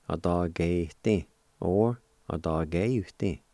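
"Adageitin" said slowly and carefully; careful slow demo. Shown as a demonstration. Teacher reviewing the word "Adageitin", slowly. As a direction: ease through "Adageitin" for learners. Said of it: "I'll pronounce these words".

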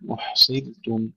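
أحصرتم with thin ر after the i; light ر. Shown as a demonstration. Teacher modelling for pupils, thin ر in أحصرتم. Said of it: "ترقيق الراء".

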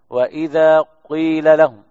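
قيل with a brief rounded u-tinge before the i; ishmam on قيل. Shown as a demonstration. Sheikh shows ishmam in قيل for students. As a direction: round the lips as قيل begins. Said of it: "يضم الشفاه".

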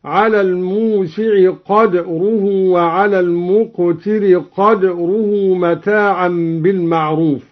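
قدره with no vowel on d, qadruhu; silent dal in قدره. Shown as a demonstration. Reciter demonstrating qadruhu with sukun. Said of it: "بإسكان الدال في الموضعين هكذا".

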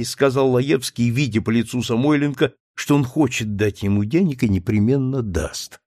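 ordinary delivery

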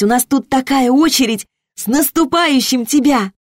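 high, gushing happy thanks; overjoyed. Acted. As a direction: burst with happiness. Liza overjoyed, thanking Alena.

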